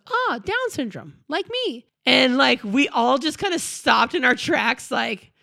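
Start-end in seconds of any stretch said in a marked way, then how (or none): 0.1-1.9 imitating her daughter. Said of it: "Grace points to them and goes".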